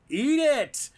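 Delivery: shouted high and loud, forcing it; angry demand. Retold or imitated. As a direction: bark the order to eat it. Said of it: "And they were like".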